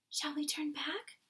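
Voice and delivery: put-on high, small girl's voice; a little girl begging to turn back; frightened little girl. A narrator's reading. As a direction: ask it small and high, scared. Frightened girl asks giant.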